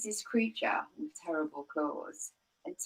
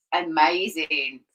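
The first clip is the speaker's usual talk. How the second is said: slow, drawn-out, louder amazement; slow awed Amazing; awed Gruffalo; 7 dB louder, much slower than usual. Acted. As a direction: stretch the word out in wonder. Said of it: "Amazing, Amy".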